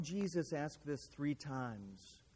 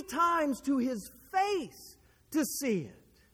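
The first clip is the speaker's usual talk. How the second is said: forceful preaching, swelling on key phrases; impassioned testimony; 7 semitones higher, 12 dB louder than usual. Real, not acted. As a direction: testify with full conviction. Preaches own testimony at full force.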